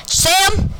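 high, sharp holler of a name; acted high-pitched yell; screamed summons. A narrator's reading. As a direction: scream for someone to come. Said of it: "Then Bill screamed".

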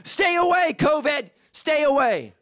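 high, loud half-laughing "stay away"; panicked shout. Retold or imitated. Pastor yelling at stuck driver to keep away, mock panic. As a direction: shoo him off in mock panic. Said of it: "I was like".

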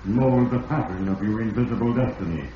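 put-on old radio drama narrator voice; ominous narrator. A narrator's reading. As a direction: speak as Fate itself, measured and grave.

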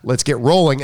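polite apology. Shown as a demonstration. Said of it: "appropriate would be".

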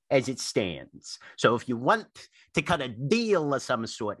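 lightly voiced old tree scolding an intruder; grave ancient myth telling. Tree demands payment.

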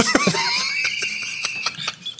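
high, helpless laughing fit; long laugh. Real, not acted. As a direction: burst out laughing at a silly punchline. Laughing at the punchline.

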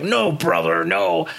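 lightly voiced wrestler refusing; Hulk Hogan. Banned wrestler answers his boss, mock protest. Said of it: "Hulk Hogan's like".

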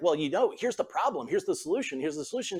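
mock eager fixer reeling off the answer; problem-solving husband.

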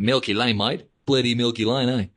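hammed-up Australian twang, "Lane" said like "line"; terrible Aussie accent. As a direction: put on a bad, jokey Aussie accent. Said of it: "terrible Aussie accent".

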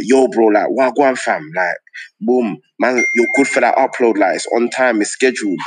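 casual London roadman slang to a mate; lightly voiced London street accent on the phone. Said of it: "I'm on the phone in the toilet, and I'm like".

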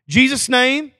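lightly imitated child's prayer, loud; a hint of a Pentecostal kid; little girl praying. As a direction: call it out like a young child praying. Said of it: "one of her first prayers".

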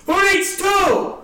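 high, drawn-out mock hawker's yell. Raffle seller walks around during the comic's set, yelling. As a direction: holler it like a raffle seller working the room. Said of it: "He's yelling".

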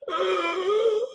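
high, thin sustained whine; mock fearful whimper. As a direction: let out a high cry of dread. Dread of being alone, acted out.

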